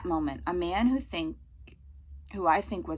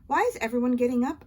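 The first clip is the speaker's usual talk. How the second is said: puzzled; 6 semitones higher, 7 dB louder, faster than usual. A narrator's reading. Confused child in theatre.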